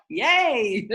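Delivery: a high, loud, laughing cheer; excited yay. Retold or imitated. Friend mimics her joy with a laughing yay. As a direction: squeal it like a thrilled kid. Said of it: "You, you're like".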